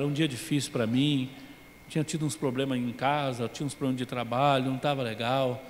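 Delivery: soft, low, conciliatory; humble apology. Retold or imitated. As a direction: apologise gently to the brother. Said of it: "eu disse".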